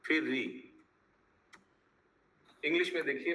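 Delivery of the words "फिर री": very slow, syllable by syllable with long pauses; slow spelling dictation. Shown as a demonstration. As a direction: dictate हा, थी, का, री piece by piece while writing. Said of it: "मैं chat box में लिख रहा हूँ".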